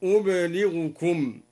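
أبلغكم said ublighukum; slow ublighukum; silent ba, light lam. Shown as a demonstration. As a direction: say أبلغكم with no doubling. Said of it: "بإسكان الباء وتخفيف اللام".

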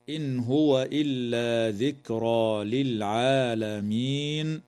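slow reading, nun of إن clear before هو; slow careful reading. Shown as a demonstration. Sheikh quoting the verse slowly before explaining. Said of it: "إظهار حلقي للنون الساكنة عند الهاء".

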